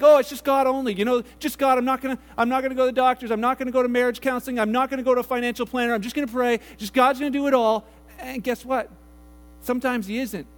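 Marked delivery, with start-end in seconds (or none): 0.0-7.8 rushed stubborn insistence. Retold or imitated. Mimicking stubborn believers.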